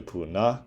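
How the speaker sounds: "pu na" as two open syllables; "pu na", the loanword form of pun; added final vowel. Shown as a demonstration. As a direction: sound out "pu na" with an A on the end. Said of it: "add the A at the end".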